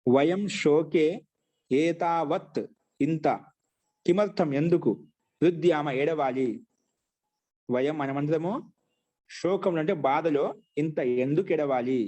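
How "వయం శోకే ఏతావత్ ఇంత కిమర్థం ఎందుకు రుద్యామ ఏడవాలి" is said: slow, word-by-word dictation with gaps; measured teacher's dictation, pausing between phrases. Shown as a demonstration. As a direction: dictate it piece by piece for students writing. Teacher dictates sentence for writing.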